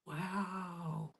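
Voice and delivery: very soft, drawn-out wow; cat's hushed awe. Acted. Kitten looks at the outdoors, hushed awe. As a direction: breathe it in wonder. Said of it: "went like".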